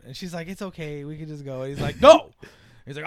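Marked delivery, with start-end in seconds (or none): 0.5-1.6 hushed pleading; soft girlfriend voice. Retold or imitated. 2.0-2.3 sudden loud high no; yelled no. Retold or imitated. Hero yells refusal.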